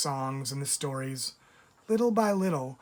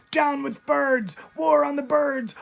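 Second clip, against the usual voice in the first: furious shout; 11 semitones higher, 6 dB louder than usual. A narrator's reading. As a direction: roar it like an angry mob. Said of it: "they shouted".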